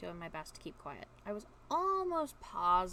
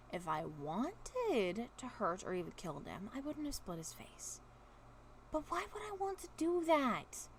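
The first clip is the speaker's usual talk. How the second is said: speaking slowly; 4 semitones higher than usual. Acted. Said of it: "speaking slowly".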